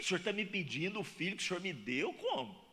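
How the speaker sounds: mock indignant talk with God, pitch jumping up on the questions; arguing with God. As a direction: play the man pushing back at God, half joking. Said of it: "eu ia começar uma conversa séria com Deus". (falando com Deus em tom de discussão brincalhona)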